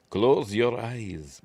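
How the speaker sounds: slow, sultry Eastern European purr, lightly done; a light imitation of a seductress with an accent; sexy Eastern European woman. Host imitating the femme fatale luring her victim, slow sultry accent. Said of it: "but in a, a sexy woman voice".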